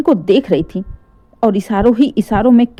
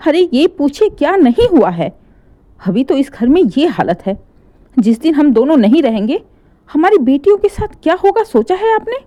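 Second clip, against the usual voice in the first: angry; 5 semitones higher than usual. Acted. Furious mother to husband.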